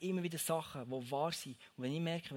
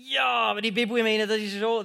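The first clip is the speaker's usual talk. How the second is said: doubting listener; 5 semitones higher, 12 dB louder than usual. Retold or imitated. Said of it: "Und jetzt sagst du vielleicht".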